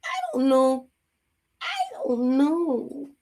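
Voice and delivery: clueless shrug voice; playing dumb. Shown as a demonstration. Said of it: "acting like you don't know".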